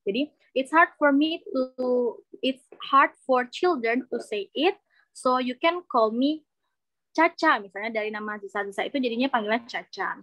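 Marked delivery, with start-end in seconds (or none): 0.6-7.6 slow demo sentence. Shown as a demonstration. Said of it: "pakai ini juga oke".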